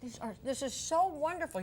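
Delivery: talking through a mouthful of food; words around a bite of food; mouth full. Real, not acted. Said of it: "You're not supposed to talk with your mouth full".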